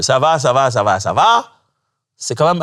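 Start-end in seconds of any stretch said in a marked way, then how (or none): 0.0-1.5 overdone ça va. Retold or imitated. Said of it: "un peu trop de ça va".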